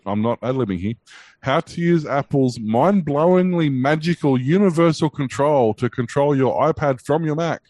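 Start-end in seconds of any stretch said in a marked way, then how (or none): 1.4-7.6 slow, grand, hammed-up wonder; mock awe. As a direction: read it like a breathless ad. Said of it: "I can't do it with a straight face".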